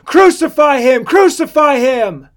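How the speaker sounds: high, full-voiced mob shout; loud chanted demand for blood; crying out. A narrator's reading. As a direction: yell it as a baying crowd, stretching the second cry. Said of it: "they cried out".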